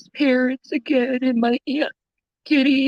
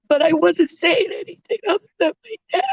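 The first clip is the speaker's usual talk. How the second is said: crying; 2 semitones higher than usual. Real, not acted. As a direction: voice cracking with tears. Grieving daughter on livestream.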